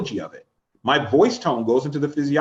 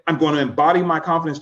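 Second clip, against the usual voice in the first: firm, assured self-talk; confident voice. Shown as a demonstration. Coach demonstrating confident self-talk, firm and assured. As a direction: say it like you mean it. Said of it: "do you notice the change in my voice".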